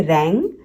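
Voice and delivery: रैंग with the G sounded through the nose; no separate N in रैंग; nasal G. Shown as a demonstration. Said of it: "जी का nasal sound है".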